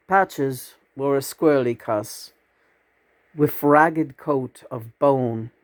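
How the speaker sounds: slow, deliberate verse reading; poetry recitation. Acted. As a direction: draw out the line endings. Begins reciting a poem.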